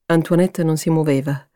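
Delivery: ordinary delivery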